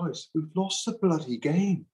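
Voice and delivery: a fed-up coach cutting through numbers; exasperated coach. Retold or imitated. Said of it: "And you go".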